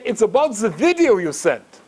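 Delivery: imitated German caller; German accent. German caller raises the video with the rabbi, German accent. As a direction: do a German accent, getting to business. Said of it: "in this German accent".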